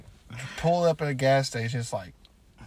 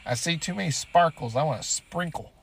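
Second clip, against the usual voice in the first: mock flirt; 5 semitones higher, 3 dB louder than usual. Joke flirting with street workers.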